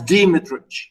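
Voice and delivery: Dimitrich as DEE-mi-trich, stressed on the first syllable; speaker's own pronunciation. Shown as a demonstration. Lecturer stating own choice to students, Dimitrich as DEE-mi-trich. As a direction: say Dimitrich with a full "dee" at the start. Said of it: "I pronounce it as".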